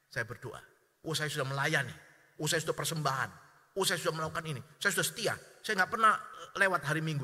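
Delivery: mock bargaining prayer, growing to a loud demand. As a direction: play the smug believer who ends up ordering God around. Sermon mocks a demanding pray-er. (doa menuntut yang makin keras)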